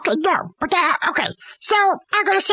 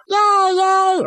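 mock cheer; 2 semitones higher than usual. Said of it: "like that".

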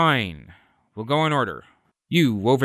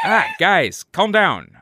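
calming the crowd; 7 semitones higher, 4 dB louder, slower than usual. Acted. Hero calming screaming fans.

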